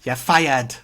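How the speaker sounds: firm boardroom dismissal, only hinted at; imitating Alan Sugar firing someone; Alan Sugar impression. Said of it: "your Alan Sugar impression".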